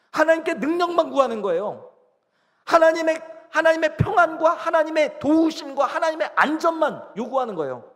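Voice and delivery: high, loud preaching voice; full-force preaching. Acted. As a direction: drive each point home, pitched high. (목소리를 높여 힘주어 설교하듯)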